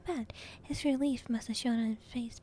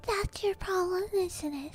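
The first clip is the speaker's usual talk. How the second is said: louder, higher villainous relish; crackling with glee; 7 semitones higher, 4 dB louder than usual. A narrator's reading. Caretaker mocking frightened boy, crackling with glee. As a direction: gloat with gleeful malice. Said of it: "his voice crackling with glee".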